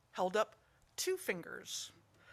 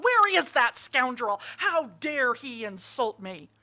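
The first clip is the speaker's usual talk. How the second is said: upset monk; 6 dB louder, slower than usual. Acted. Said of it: "he was quite upset".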